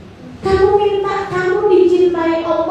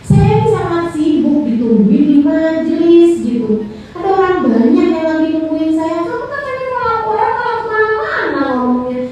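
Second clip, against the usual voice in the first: offended scolding; 3 semitones higher than usual. Acted. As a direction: complain you are busy and being wasted. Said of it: "saya malah akan tersinggung".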